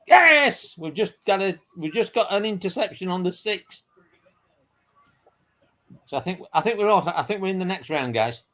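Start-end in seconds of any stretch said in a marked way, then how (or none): 0.1-3.8 excited call. Real, not acted. Sudden game update shouted.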